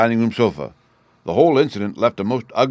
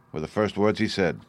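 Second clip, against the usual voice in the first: usual speaking voice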